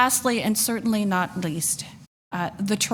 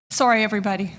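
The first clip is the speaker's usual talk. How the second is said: tearful apology; 4 dB louder, much faster than usual. Real, not acted. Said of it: "I'm sorry, Mister Chair".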